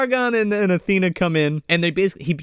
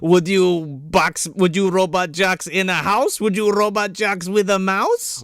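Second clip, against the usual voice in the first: mock children's rhyme; 4 semitones higher than usual. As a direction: chant it like a picture-book rhyme. Rhyming parody of children's book.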